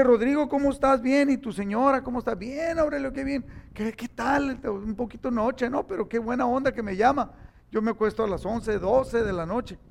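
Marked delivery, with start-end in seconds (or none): 0.0-7.3 lightly voiced friendly phone chat, a bit higher; retold phone chat. Preacher retelling the pastor's call, lightly voiced, higher. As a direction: replay the late call brightly.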